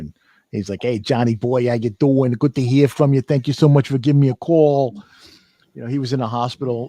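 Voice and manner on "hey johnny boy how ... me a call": put-on louder Brooklyn accent. Retelling a phone call with the speaker's great uncle in Brooklyn, Brooklyn accent. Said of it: "my Brooklyn accent from having this discussion with him".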